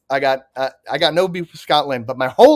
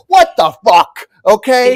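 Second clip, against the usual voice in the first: indignant outburst; 7 semitones higher, 9 dB louder than usual. Real, not acted. Outraged rant about Albany.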